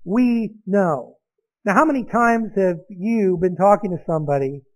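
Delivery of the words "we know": "We" leaned on, then "know" falls away; "We know" with the weight on "We"; stress on WE. Shown as a demonstration. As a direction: hit the word "We", he came alone. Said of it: "but he says".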